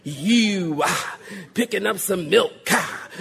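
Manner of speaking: puffed "ha" after each phrase; preacher voice. Retold or imitated. Shopper greeting pastor in Food Lion, mock preacher cadence. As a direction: lightly parody pulpit cadence in small talk. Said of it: "nobody walks up".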